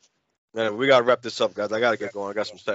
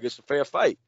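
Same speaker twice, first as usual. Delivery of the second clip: quiet, matter-of-fact offer; retold mad cool; 3 semitones lower, 5 dB quieter than usual. Classmate offering a fair fight, calm and soft. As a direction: imitate him coolly making his case. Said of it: "he was mad cool about it".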